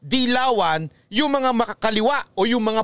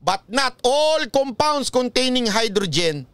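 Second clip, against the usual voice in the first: slow quoted rule; slower than usual. Shown as a demonstration. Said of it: "Sabi nga".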